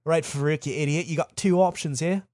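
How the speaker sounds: lightly scolding, put-on British voice; mock British telling-off; British accent. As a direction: lay down terms in a rough British accent. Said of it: "I do the incorrect accent".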